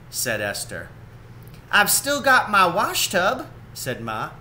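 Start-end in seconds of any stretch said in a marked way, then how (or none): 1.7-3.5 higher, firm mother voice; a lightly voiced determined mother; confident Ma. Ma answers Esther.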